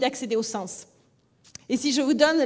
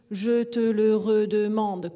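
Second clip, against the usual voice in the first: slow, loud southern French, JE stressed and every e sounded; Toulouse accent; 5 dB louder, slower than usual. Shown as a demonstration. Teacher demonstrating the Toulouse accent. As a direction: say «je te le redemande» the Toulouse way, all schwas kept. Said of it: "si je dis".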